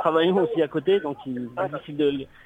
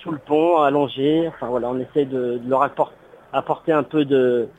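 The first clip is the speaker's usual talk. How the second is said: radio show caller; 4 dB louder than usual. Real, not acted. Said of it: "On a un auditeur à la, à l'antenne".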